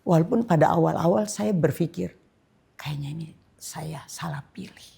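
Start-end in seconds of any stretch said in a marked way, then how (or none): 2.7-4.9 a hushed whisper to herself; whispered thought. Retold or imitated. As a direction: whisper the doubt under your breath. Recalling her own doubting thought.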